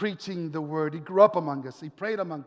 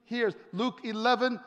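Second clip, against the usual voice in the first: raised, ringing sermon delivery; full-voiced preaching; 4 semitones higher, 4 dB louder than usual. Preacher telling a congregation of the angel's news, proclaiming.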